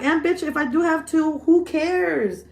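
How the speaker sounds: a loud indignant clapback for Tammy; mock angry comeback. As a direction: snap back at the nosy sister. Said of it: "you should have been like".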